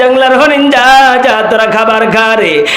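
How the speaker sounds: tearful-style chanted storytelling; imitated preacher's melodic wail; Tofazzol Bhairabi impression. Shown as a demonstration. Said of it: "ওনার মতো হুবহু হয়েছে তো".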